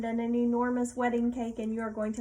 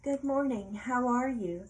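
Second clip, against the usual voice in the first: a lightly voiced lady, a bit higher and brighter; a captured lady greets her pirate with a higher, lightly voiced good morning; the lady's greeting; 3 semitones higher than usual. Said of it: "she says".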